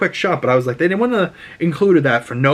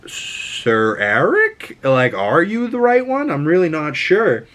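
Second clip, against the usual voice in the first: uncertain queen; 4 semitones higher, slower than usual. Retold or imitated. Rhaenyra unsure which twin.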